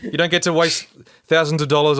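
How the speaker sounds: loud frustrated venting; angry rant. Real, not acted. Ranting about the writers.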